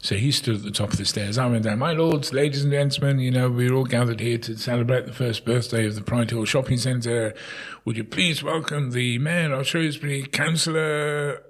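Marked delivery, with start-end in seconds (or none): 1.8-11.4 a hint of a town crier proclamation; lightly voiced crier announcing the mayor. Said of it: "do this shout".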